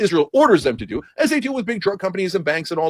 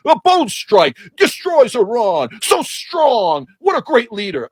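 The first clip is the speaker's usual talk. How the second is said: slow, higher fawning anchor; mock pundit praise; 4 semitones higher, much slower than usual. Mocking cable news praising the strike, slow and fawning. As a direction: savor each word of flattery. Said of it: "they're all over cable news going".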